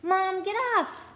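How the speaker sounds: high, loud and slow whine; whiny protest. Acted. Ron protests as mother rubs his nose, whiny. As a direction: squirm away complaining.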